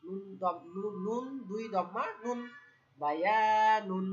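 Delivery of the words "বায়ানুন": বায়ানুন stretched slowly, loud; teacher modelling বায়ানুন slowly; slow model word. Shown as a demonstration. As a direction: hold each syllable of বায়ানুন. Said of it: "কি উচ্চারণ?".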